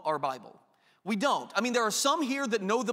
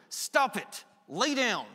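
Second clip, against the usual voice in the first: annoyed parent; 3 semitones higher, slower than usual. Retold or imitated. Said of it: "this annoyed, like your kids".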